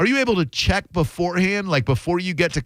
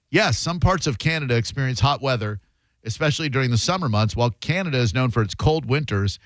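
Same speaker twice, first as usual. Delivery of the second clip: reading AI answer; 2 semitones lower than usual. Shown as a demonstration.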